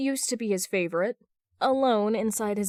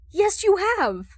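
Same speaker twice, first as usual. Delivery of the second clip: high, loud frustrated insistence; much higher, louder exasperated yell; frustrated exclamation; 12 semitones higher, 7 dB louder, slower than usual. Acted. Argument continues.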